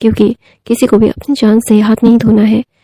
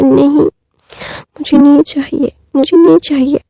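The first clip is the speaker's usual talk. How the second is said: higher, slow whiny tantrum voice; 4 semitones higher, slower than usual. Retold or imitated. Wing throws a tantrum at Wang ji, whiny higher voice. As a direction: stretch out the no like a sulking child. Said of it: "टेंटम throw करने लगता है".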